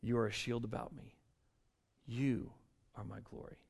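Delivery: low, very soft, with pauses between phrases; hushed psalm reading. Acted. Preacher quoting David's words to God, hushed and low. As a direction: speak it low, like a private prayer. Quotes the psalm, reverently slow.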